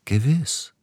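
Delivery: soft reply. Acted. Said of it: "erwiderte Siegfried sanft".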